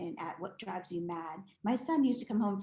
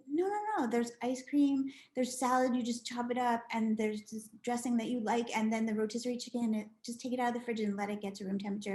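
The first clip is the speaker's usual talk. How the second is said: rushed instructions; 2 semitones higher than usual. Retold or imitated. Explaining to son.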